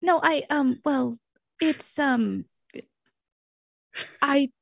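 sheepish, searching for the words; awkward excuse. Acted. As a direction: stammer your way through a tentative plea. Stammers excuse to jealous friend.

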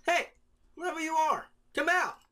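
loud, high call to someone hiding. Acted. JT to hidden stranger, calling out. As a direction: raise your voice, insistently. Calls to hidden person behind tree.

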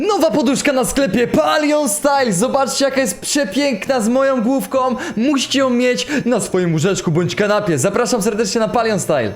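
ad read. Acted. Sudden product ad read.

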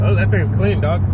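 lightly voiced hype sneaker reviewer; a hint of a hyped-up car show host; Fresh Kicks voice. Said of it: "My Fresh Kicks voice".

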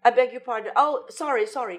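flustered, stammering British politeness, high; hammed-up apologetic British English; British accent. Shown as a demonstration. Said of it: "Ganun lagi sila".

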